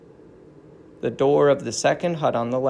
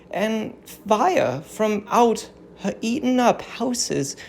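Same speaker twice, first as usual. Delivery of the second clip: higher, earnest, praying voice; fervent prayer of an old queen; 6 semitones higher, slower than usual. Acted. Captive queen Hecuba praying to the gods, higher and fervent. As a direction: lift the words to heaven like a grieving queen. Hecuba warns against Helen.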